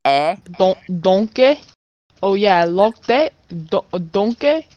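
loud, fumbled Australian accent; attempted Australian accent. Shown as a demonstration. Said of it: "Oh, for Australian".

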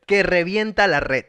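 slow, deliberate model line; dictated phrase. Shown as a demonstration. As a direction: give the phrase slowly to be repeated. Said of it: "yo te doy esa frase a ti".

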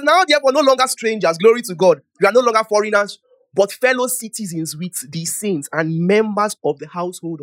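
loud, declaimed Bible reading; scripture reading. Real, not acted. Preacher reading scripture to the congregation, loud declaimed reading. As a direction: read the verse out to the whole room.

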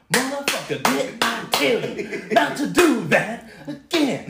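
mock mama scolding her kid, slow and drawn out. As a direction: play an angry mom, lightly. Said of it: "That's just your mama beating your ass".

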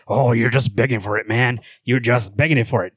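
goading, slightly low comic-book voice; Batman. Acted. Host answering Superman, lightly voiced Batman. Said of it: "low voice for Batman".

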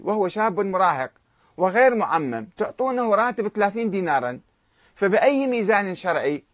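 mild mock shout, building indignation; retold angry shout. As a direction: protest the unjust salary with rising heat. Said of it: "ثم صاح، صاح السيد بشدة".

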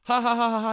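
loud, high, put-on laugh; mock laughter. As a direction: fake a hearty burst of laughter. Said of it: "We're laughing hilariously".

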